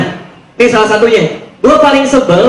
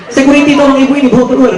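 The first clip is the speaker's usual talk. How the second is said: calling security; 4 semitones higher, faster than usual. Retold or imitated. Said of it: "gue bilang".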